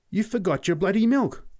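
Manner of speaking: very high, loud exclamation; astonished. A narrator's reading. Boy tells Pat he forgot the milk, astonished. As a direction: blurt it out in amazement. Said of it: "I said in astonishment".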